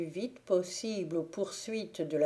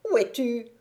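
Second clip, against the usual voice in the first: witch calling; 5 semitones higher, 6 dB louder than usual. A narrator's reading. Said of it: "s'écria la vieille".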